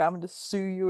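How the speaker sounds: menacing, threatening tone. Retelling a woman threatening to sue the officers: imitating a threatening woman. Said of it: "she was just threatening".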